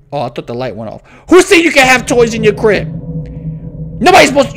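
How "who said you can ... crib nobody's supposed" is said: loud, higher telling-off; playfully outraged parent voice; mock parental scolding. Scolding the game's child.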